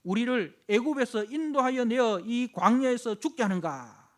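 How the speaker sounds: indignant, slow complaint against God; grumbling people in the wilderness; complaining Israelites. Retold or imitated. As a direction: hurl the grievance at Moses.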